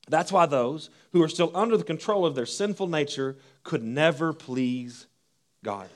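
measured reading of Romans to the congregation; scripture reading. Acted. Reads Romans aloud.

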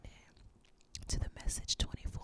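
soft ASMR sign-off whisper. Pretend. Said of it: "A S M R".

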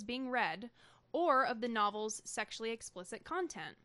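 measured, evenly phrased article read-aloud; reading aloud from a written story; news article read. Acted.

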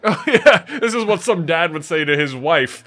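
laughing through the words; can't hold back a laugh. Real, not acted. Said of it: "as if".

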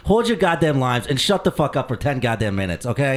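hammed-up angry rant at Johnny; furious shout. Real, not acted. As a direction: blow up at the interrupting co-host. Host yelling at co-host.

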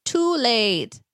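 high, stretched mock-kid voice; little kid's retort. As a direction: imitate yourself as a small child announcing it. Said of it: "And so I said".

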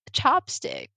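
imitating the friend's high surprised "oh"; mock surprise. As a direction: pitch it up, fake-amazed. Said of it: "And then she's just like".

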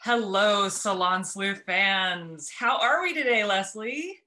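sexy intro voice; slow sultry radio host greeting; mock seductive. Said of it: "Get my sexy voice on".

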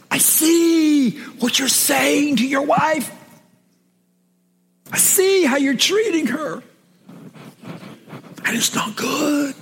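a lightly voiced stern God speaking down.

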